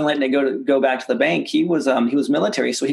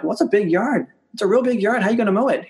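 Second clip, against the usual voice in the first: mock innocent; 8 semitones higher than usual. Playing innocent to neighbor.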